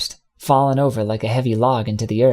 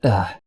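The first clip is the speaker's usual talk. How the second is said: groan; 4 semitones lower than usual. A narrator's reading. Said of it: "He groaned".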